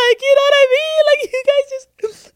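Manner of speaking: high, loud laughing cry; real laughter breaking through; laughing outburst. Real, not acted. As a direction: crack up mid-rant.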